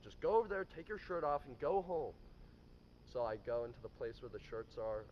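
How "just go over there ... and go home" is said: louder, higher curt dismissal; firing order. Retold or imitated. Boss firing the new valet on the spot, a loud curt order. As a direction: order him out, fed up. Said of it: "And he's like".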